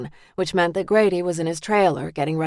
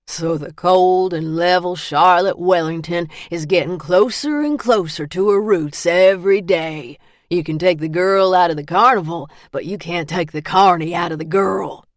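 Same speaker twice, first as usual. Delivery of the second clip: mocking; 5 dB louder than usual. Man mocking her roots.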